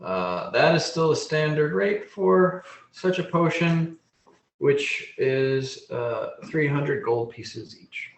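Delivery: lightly voiced, proud gnome apothecary; measured gnome merchant with deliberate pauses; gnome shopkeeper. Gnome quotes his price to a buyer, lightly voiced merchant.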